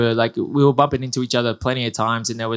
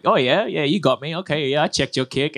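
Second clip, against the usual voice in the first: higher-pitched, playful concession to a rival; mock acknowledgement; 4 semitones higher than usual. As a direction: imitate nodding along to an opponent mid-fight. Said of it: "head nods going like".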